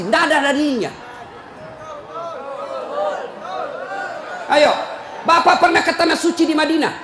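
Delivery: half-laughing, half-scolding sermon to the committee; preaching at full force. Acted. Rousing preacher's scolding. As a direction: pulpit voice lecturing mosque committee members on unused cash balances.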